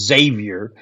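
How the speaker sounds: "Xavier" said as "ZAY-vyer"; correct Xavier. Shown as a demonstration. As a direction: start "Xavier" straight on a Z, no "ex". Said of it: "it's just Xavier".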